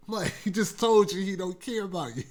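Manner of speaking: usual speaking voice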